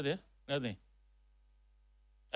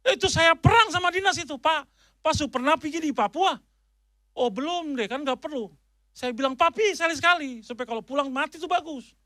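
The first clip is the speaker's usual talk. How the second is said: louder, heated retelling of a fight; 3 semitones higher, 6 dB louder than usual. Retold or imitated. Preacher recounts his battle with the education office, heated and loud. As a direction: argue it out with force.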